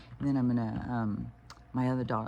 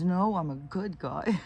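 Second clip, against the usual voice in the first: put-on much higher, slow, insistent toddler voice; protesting little grandson; 7 semitones higher, 5 dB louder, slower than usual. Grandson correcting his aunt, high insistent toddler voice. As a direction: stubbornly correct her like a small boy. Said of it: "And he's".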